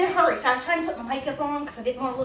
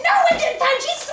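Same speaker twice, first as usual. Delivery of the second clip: fed-up refusal; 9 semitones higher, 5 dB louder than usual. Retold or imitated.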